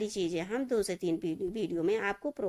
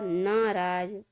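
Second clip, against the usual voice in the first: very slow; much slower than usual. Shown as a demonstration. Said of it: "शुद्ध शब्दों को देखिए".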